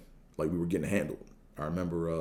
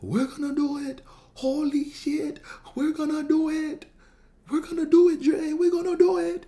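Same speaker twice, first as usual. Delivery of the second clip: high-pitched imitation of dad screaming at the game; hammed-up falsetto scream of hope; excited screaming; 6 dB louder than usual. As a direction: shriek it way up high, building louder. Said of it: "my dad just screaming".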